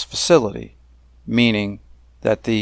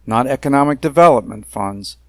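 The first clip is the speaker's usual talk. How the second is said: a bit louder and firmer on the contrast; contrastive emphasis; 3 semitones higher, 4 dB louder than usual. Shown as a demonstration. Objector at a hearing firmly contrasting the funding type. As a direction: push back on economic development. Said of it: "And I emphasize the word capacity".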